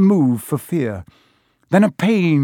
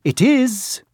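grave centaur; 10 semitones higher than usual. Acted.

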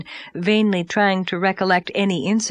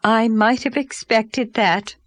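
Mrs Donnell. Acted. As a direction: announce yourself like a grand overdressed lady. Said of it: "said Missus H B Donnell".

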